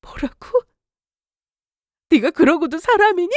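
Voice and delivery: high, shocked indignation; wife disgusted with her callous husband; outraged. Acted. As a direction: spit out her contempt. Furious at husband.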